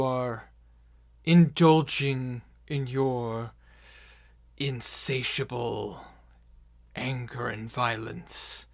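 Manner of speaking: slow, loud, deliberate proclamation; villain's speech. Acted. Villain warns the gathered orcs he is watching, slow menacing oration. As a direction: address the horde slowly, hitting key words hard.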